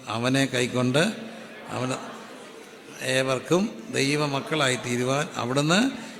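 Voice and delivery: slow, loud verse recited with the congregation. Shown as a demonstration. Preacher leading the church in reciting the verse, loud and slow. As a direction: say it out loud so your own ears hear it. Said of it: "ഉറക്കെ പറഞ്ഞേ".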